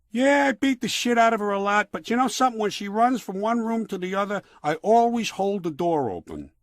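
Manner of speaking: high, loud, bragging yokel voice; a wife-beater bragging to his buddies; boastful brute. Acted. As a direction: crow about it like a proud thug.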